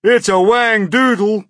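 very high, loud yell; panicked yell. A narrator's reading. Fire chief spotting a strange creature, panicked yell. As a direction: yell it out as a monster alarm. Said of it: "yelled the head of the fire department".

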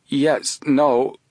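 high, hesitant reply; flustered stammer. A narrator's reading. Guard answering the policeman, stammering excitedly. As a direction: falter between two answers, excited. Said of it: "the man stammered, highly excited".

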